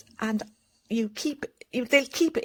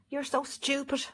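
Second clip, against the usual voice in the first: contemptuous parent; 3 semitones higher, 5 dB quieter than usual. Retold or imitated. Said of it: "And here they are".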